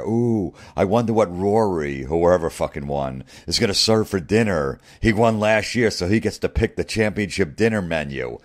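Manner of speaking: mock the quaint tradition with fake excitement; mocking gush. Mocking golf traditions in quote.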